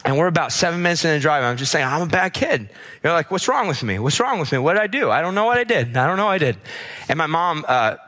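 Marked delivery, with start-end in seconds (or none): 1.9-2.6 high-pitched, lightly voiced upset child; retold crying child. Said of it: "I just start crying". 3.3-6.6 higher, lightly acted distressed child; retold crying child. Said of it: "I just start crying".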